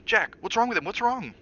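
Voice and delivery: high, loud, alarmed plea; mother begs her husband to explain; frightened mother. A narrator's reading. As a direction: demand an answer in panic.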